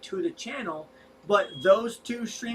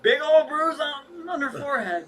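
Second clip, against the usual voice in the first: laughing; 6 semitones higher, 4 dB louder than usual. Real, not acted. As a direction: chuckle while you say it. Laughing while telling of the bruise.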